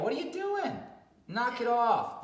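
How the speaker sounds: scolding shout. Shown as a demonstration. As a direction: make a scene and tell him off. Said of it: "Make a scene about it".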